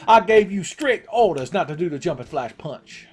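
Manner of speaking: over-the-top McMahon rant; Vince McMahon impression. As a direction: scold like an outraged wrestling boss. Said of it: "That's my Vince McMahon impression".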